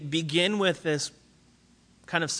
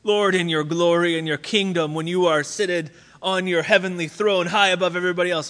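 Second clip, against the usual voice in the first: straightforward request; 2 semitones higher, 4 dB louder than usual. Retold or imitated. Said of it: "say it straightforward".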